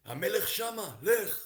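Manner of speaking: high, loud acted call; sharp rise in pitch and volume; calling out directions. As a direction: point someone onward with a shout. Someone points messenger to king.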